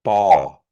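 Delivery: Ball with a tight unaspirated b; Ball said loudly with a clipped b; bracketed B. Shown as a demonstration. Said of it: "The bracketed B".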